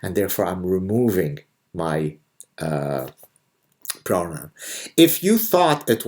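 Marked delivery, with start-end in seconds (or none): 0.0-4.5 mock quote. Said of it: "suddenly she says".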